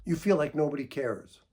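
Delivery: steady, calm echo; calm reflecting back. Shown as a demonstration. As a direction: acknowledge the feeling evenly. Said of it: "you respond with something like".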